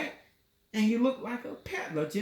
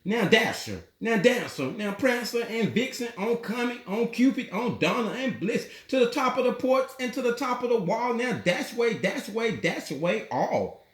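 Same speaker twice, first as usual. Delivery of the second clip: mildly raised call to the reindeer, a little higher; calling out names; 3 semitones higher than usual. Acted. Saint Nick calling his reindeer by name, mild call. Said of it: "he whistled and shouted and called them by name".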